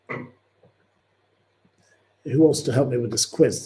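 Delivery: slow, stretched question to the chat; a slow sing-song appeal for help; drawn-out call. Acted. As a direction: draw each word out slowly.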